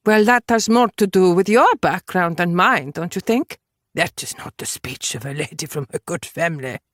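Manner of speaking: lightly voiced haughty gentleman; a hint of lofty disapproval; condescending Englishman. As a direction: put her in her place.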